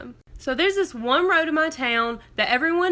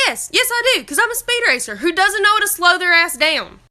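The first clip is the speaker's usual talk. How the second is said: mock confession; 4 semitones higher, 4 dB louder than usual.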